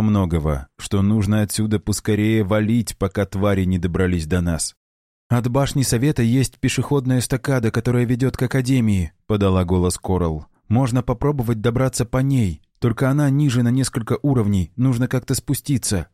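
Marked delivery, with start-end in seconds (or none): 5.3-16.1 lightly higher female character voice; young woman voice. Acted. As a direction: voice the girl a bit higher. Coral speaks, female character.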